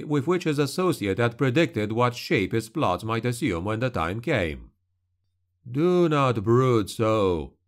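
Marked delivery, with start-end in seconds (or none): 5.7-7.5 slow, drawn-out hiss, slightly pressed. Acted. Shadow soothing brooding Carandini by the fire, slow hiss. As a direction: hiss it slowly to calm a brooding ally. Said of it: "the shadow hissed".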